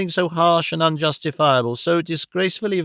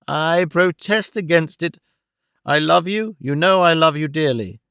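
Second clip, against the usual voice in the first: lightly voiced old man, trembling with energy; a touch of pleading protest; earnest old uncle. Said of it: "a surprising energy into his trembling voice".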